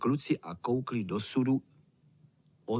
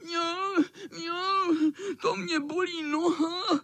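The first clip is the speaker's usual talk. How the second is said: vysoké žalostné mňoukání; fňukat, že bolí noha; kňourání; slower than usual. Pretend. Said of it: "Zakňoural". (kocour předstírá bolest, kňourá)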